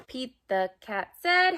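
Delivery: lively storybook read-aloud for little ones; reading to children. Acted. Teacher reading a picture book to kids at home, lively. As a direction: read it like circle time, bright and playful.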